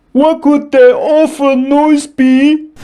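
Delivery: scared cry. A narrator's reading. Dragon in the dark forest, frightened. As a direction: ask it nervously. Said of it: "cried Dragon".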